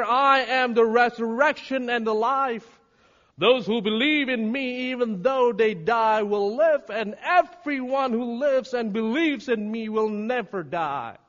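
high, loud declamation of scripture; forceful preacher quoting scripture; preaching scripture. Acted. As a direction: proclaim it boldly to the congregation.

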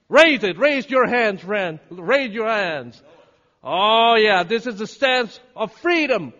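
high-energy forceful preaching; full-force rallying. Real, not acted. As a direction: rouse the congregation to victory. Rallies congregation to raise hands.

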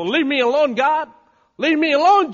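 high, loud plea to be left alone; loud protest. Acted. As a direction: push them away at full voice. Acts out someone rejecting help.

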